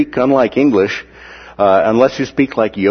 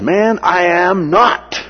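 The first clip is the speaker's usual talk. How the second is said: high, slow acted protest; emphatic denial; 8 semitones higher, much slower than usual. Peter still denies knowing Jesus, high drawn-out protest.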